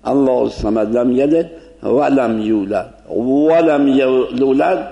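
lightly chanted recitation with Persian waw; lightly recited verse; Quran recitation. Shown as a demonstration.

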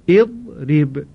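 اضرب read as idrib with a short i; Arabic model word. Shown as a demonstration. Teacher gives the final reading to students, careful demonstration. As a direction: pronounce اضرب clearly, opening i.

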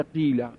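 قیله said qila, with long i; qila, two syllables, the first vowel a long i in قیله; kasra moved to qaf. Shown as a demonstration.

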